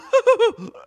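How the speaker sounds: squeaky laugh at own voice; high laugh. Real, not acted. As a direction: crack up laughing. Laughing after the voice.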